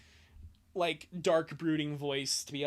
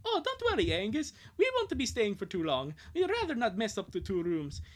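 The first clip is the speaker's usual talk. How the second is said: put-on higher, friendly boy's reply; 4 semitones higher than usual. Lincoln tells Angus they'll share a room, high and friendly. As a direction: reassure him easily.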